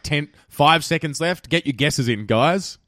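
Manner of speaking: host urging listeners to send guesses, loud and slow; calling out countdown. Real, not acted. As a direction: drag it out and hype the last seconds.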